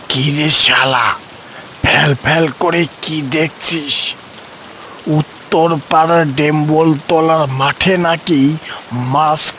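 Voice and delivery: put-on a gruff grandpa luring the boy out fishing; old man voice. Old Jagai tempts Nonte. (নিচু গলায় বুড়ো দাদুর প্রলোভন)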